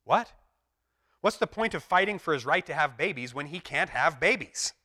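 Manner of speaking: mild mock anger; angry friend. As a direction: demand it crossly. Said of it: "Another guy's angry".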